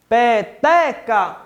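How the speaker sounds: "Peteca" slowly split, TE strongest; syllable by syllable. Shown as a demonstration. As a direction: say "Peteca" in drawn-out pieces, stressing te. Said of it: "Fazendo a separação silábica". ("Peteca" devagar, em sílabas, com força no "te")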